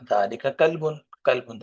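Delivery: کلب with lam held without a vowel; teacher correcting; silent lam. Shown as a demonstration. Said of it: "لام کو آپ نے ساکن کرنا ہے".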